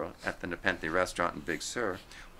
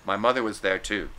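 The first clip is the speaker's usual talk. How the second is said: hostile; 6 dB louder than usual. Acted. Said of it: "an almost hostile response".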